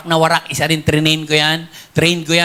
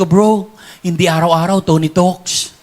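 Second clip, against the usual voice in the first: chuckling; slower than usual. Retold or imitated. Retold reply to fans, chuckling.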